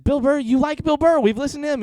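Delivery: loud, high-pitched retold disbelief; high and loud, acting out the argument; incredulous protest. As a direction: re-enact protesting to a friend in disbelief.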